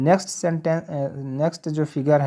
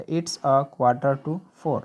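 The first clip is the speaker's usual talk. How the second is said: slow model sentence; much slower than usual. Shown as a demonstration. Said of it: "teacher models English time".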